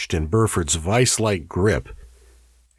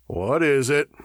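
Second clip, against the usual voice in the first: higher, urgent question; demanding; 6 semitones higher than usual. A narrator's reading. Hale to Burford as the man collapses, demanding. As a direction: demand an answer. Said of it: "Hale demanded".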